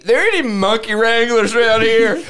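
twangy hick voice calling out; a light hick yokel voice; redneck caller. Pretend. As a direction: play a hillbilly shouting a question. Redneck voice of Jim Bob.

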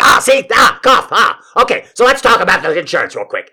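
high, loud eruption mid-poem; frantic yelped interruption; sudden outburst. Acted. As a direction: burst out as if unable to hold it in. Poem reading bursts into insurance rant.

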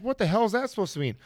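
high, fast baffled outrage; mock indignant. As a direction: react startled and offended. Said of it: "I'm like".

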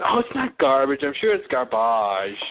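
garbage as gar-BAHZH, French style; mom's French garbage. Retold or imitated. Mom insists in a retold exchange: French garbage. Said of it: "She goes".

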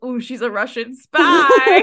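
drawn out like a wide-eyed onlooker; mock awed gossip. Friend teasing Emily about speaking Russian: slow mock awe. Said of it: "I'd be like".

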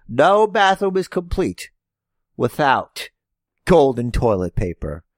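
hammed-up wealthy wrestling villain; rich heel voice. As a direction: boast like a smug rich heel. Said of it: "notice I'm not doing a racist accent".

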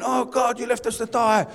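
whiny string of grumbles; mock complaining. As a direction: imitate people moaning at God. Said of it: "they start complaining".

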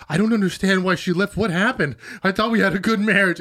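imitating a pleading, abandoned husband. Husband pleading with Carrie over the breakup, imitated pleading. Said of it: "he's just sitting there pleading".

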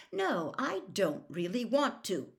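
Harry's inner voice refusing the curse, a little firmer. Acted. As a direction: dig in a bit. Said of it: "a little more firmly".

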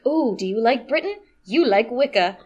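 hammed-up persuasion; mock propaganda pitch. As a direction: imitate a pushy recruiter winning someone over. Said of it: "like pro-Britain propaganda".

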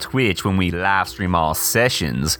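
lightly voiced campy host; a hint of a flamboyant showman; campy drag queen. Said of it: "Clem Clemens".

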